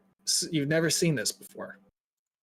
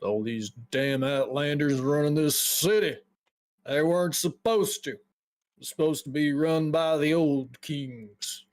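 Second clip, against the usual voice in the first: a hint of a weary old-timer; lightly voiced grumbling woodcutter. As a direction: play a woodcutter griping about Outlanders. Voices a bitter woodcutter character.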